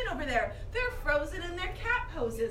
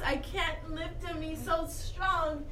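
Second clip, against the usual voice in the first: mock strain; 2 semitones lower, 5 dB quieter than usual. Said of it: "I was trying to pretend to lift the kids".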